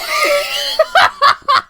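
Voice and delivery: squealing burst of laughter; high shrieking laugh. Real, not acted. Laughing at the co-host.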